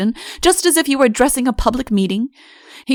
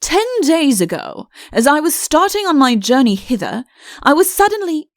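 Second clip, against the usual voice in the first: stern; 6 semitones higher, 3 dB louder than usual. Acted. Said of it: "he began sternly".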